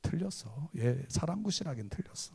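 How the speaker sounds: put-on soft, resigned old man's verdict; muttered verdict. Old acupuncturist quietly giving up on the baby. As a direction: let it drop quietly, giving up.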